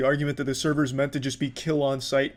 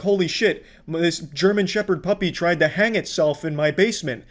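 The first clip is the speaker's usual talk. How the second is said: hammed-up fake shock, pitched higher; mock YouTuber outrage; 4 semitones higher, 4 dB louder than usual. Scammy channel host faking alarm for the camera, mocking. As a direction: play a phony rescuer gasping for views. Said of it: "They'll have a video like".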